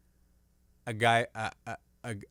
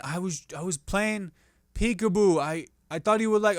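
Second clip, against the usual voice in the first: defensive whine; 7 semitones higher, 4 dB louder than usual. Acted. Acted defensive self voice.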